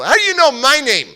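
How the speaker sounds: put-on angry kid. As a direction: snap back like a suspicious boy. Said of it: "I'm, like, frustrated, angry".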